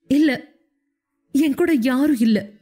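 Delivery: tearful protest. Acted. Sruthi sobbing, protesting.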